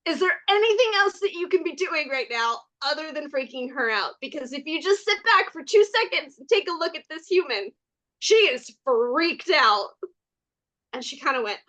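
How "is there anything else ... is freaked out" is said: put-on higher, bright soothing voice for a child; calm, as to a child. Calming an overexcited Fae, lightly raised voice as if to a child. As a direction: humor an excited kid gently. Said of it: "as if talking to a child".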